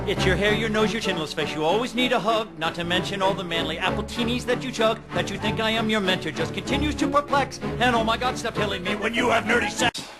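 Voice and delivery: building, exasperated rant; escalating comedy rant. Acted. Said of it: "I also do, uh, funny rants".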